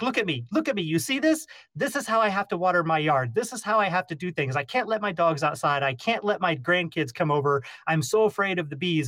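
put-on high, pleading old-lady voice; frantic neighbor. Neighbor showing the beekeeper her bee gear, high and pleading. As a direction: whine it like a scared neighbor.

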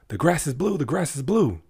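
high, loud insistent donkey voice; screaming donkey. Retold or imitated. Donkey screaming across the field, high and loud. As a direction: shout it like a stubborn donkey. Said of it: "he's screaming".

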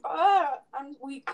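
straining against a stuck lid; opening a stuck jar. Real, not acted. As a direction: grunt with effort then give up. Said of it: "I can't open the jar".

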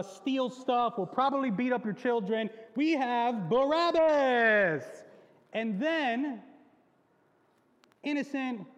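loud, high, hammed-up game show host; game show host Pilate. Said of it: "Pilate's like".

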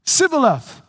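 "Sibboleth" with a plain s, not sh; mispronounced Sibboleth. Retold or imitated. Ephraimite at the river fails the test, saying Sibboleth. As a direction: say "Sibboleth", hissing s at the start. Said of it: "Say Shibboleth".

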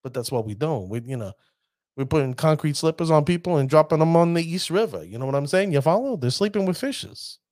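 put-on New York mobster-style accent. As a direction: talk like a New York wiseguy, in local accent. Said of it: "bring in my New York accent".

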